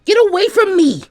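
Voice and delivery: high, loud furious scream; panicked fury, lashing out; angry yell. Acted. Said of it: "Fu yelled angrily".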